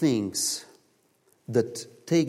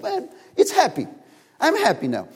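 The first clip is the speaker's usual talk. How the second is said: happy; 12 semitones higher, 4 dB louder than usual. Retold or imitated. Man enjoys being the monkey.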